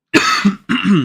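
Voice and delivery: loud sick cough; coughing fit. Real, not acted. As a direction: cough hard once. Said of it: "sorry about the coughing fit".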